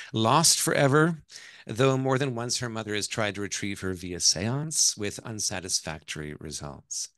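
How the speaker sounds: novel read aloud with measured emphasis; story narration. A narrator's reading. Author reads her novel to an audience, story narration. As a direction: narrate it with weight on key phrases.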